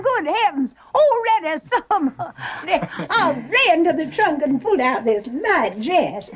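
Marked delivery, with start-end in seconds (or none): 2.4-6.3 laughing. Acted. Mother chatting to gentleman caller.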